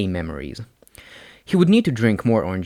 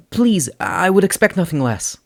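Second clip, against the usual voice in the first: Izuku's voice; 9 semitones higher, 5 dB louder than usual. A narrator's reading. Izuku answers Uraraka.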